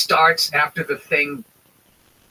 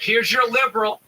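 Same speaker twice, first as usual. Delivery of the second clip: mock presenter; 5 semitones higher than usual.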